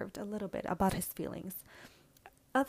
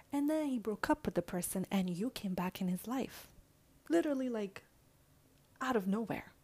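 friend's blunt lecture. Retold or imitated. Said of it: "Because she said".

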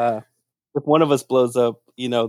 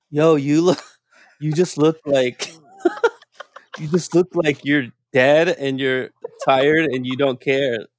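retelling the boss's words while laughing; half-laughing, playful scolding; laughing through a quote; 2 semitones higher than usual. Retold or imitated. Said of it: "being like".

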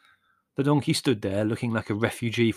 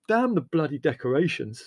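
raised, irritated retort; irritated cursing; 5 semitones higher, 3 dB louder than usual. A narrator's reading. Leslie dismissing Margot's protest, irritated. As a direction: curse her fussing away.

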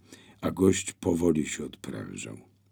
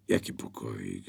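surprised; 9 semitones lower, 7 dB quieter than usual. A narrator's reading. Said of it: "zdziwił się Adam".

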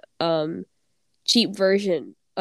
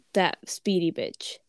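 whispered aside. Real, not acted. Naming a character, lowered voice.

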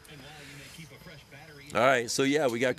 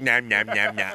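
nom nom; 6 dB louder than usual. Shown as a demonstration. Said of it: "change my radio voice".

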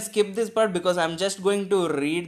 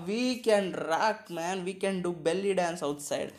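mock swagger; 4 dB quieter than usual. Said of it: "That's what they're thinking".

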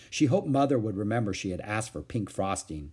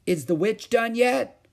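put-on innocent little girl; 11 semitones higher, 5 dB louder than usual. A narrator's reading. Ramona innocently asking.

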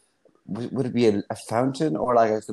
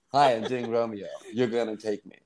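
mock confident. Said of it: "You have to be like".

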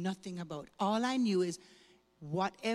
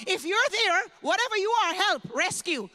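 louder, higher cry for rescue; desperate plea; 8 semitones higher, 8 dB louder than usual. Retold or imitated. Frightened teen in a strange church praying to anyone listening, pleading. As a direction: beg an unknown God to save her.

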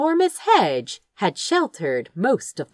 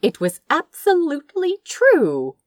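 ordinary delivery, nothing marked

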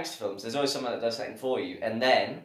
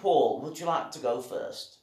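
slow, put-on Liverpool drawl; Scouse accent; slower than usual. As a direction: invite Paul in a mock Scouse accent. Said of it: "get rid of the accent".

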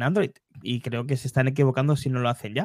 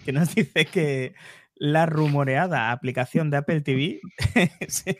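laughing while reading out the name; laughing through pain. Real, not acted. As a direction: giggles breaking into the words. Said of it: "No me hagáis reír".

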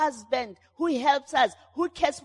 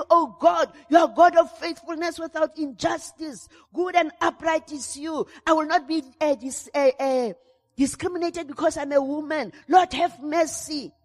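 crying out to God; 3 semitones higher than usual. Shown as a demonstration. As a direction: cry out to God in earnest, raised voice. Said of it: "You must be able to cry and say".

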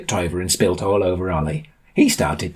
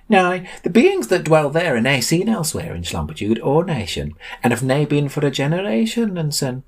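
higher-pitched, sing-song sage; raised, theatrical pronouncement; lofty Sam, grandly mysterious; 8 semitones higher than usual. A narrator's reading. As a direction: intone it like a grand guide to strange lands.

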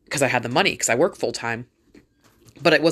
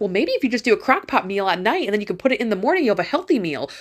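higher, lightly mimicked preachy advice-giver; a hint of a smug helper offering tips; mock know-it-all advice; 5 semitones higher than usual. Mocking people who advise her to cook ahead, mock smug. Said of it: "those people that are like".

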